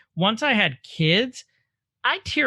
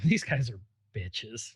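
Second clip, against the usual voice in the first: mocking viewer voice; 6 semitones lower, 8 dB quieter, slower than usual. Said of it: "some of you are probably going".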